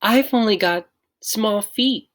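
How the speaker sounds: put-on high little-boy voice, plaintive; small boy showing his feet; small child voice. A narrator's reading. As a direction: sound tiny and a bit sorry for yourself.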